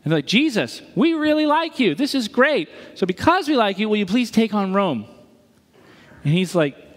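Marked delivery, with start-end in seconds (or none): 0.3-5.0 eager crowd. Retold or imitated. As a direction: voice the eager crowd begging Jesus. Crowd voiced pleading to Jesus.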